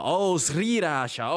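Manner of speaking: "sriracha" drawn out slowly with rolled confidence; successful pronunciation. Real, not acted. Finally managing the word, slow and deliberate "sriracha". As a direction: stretch "sriracha" out, each syllable full. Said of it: "now I can say it".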